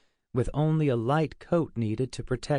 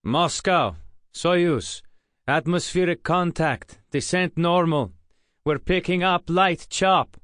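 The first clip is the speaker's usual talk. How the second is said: jittery voice; 6 semitones higher, 5 dB louder than usual. A narrator's reading. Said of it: "his voice jittery from the bumps".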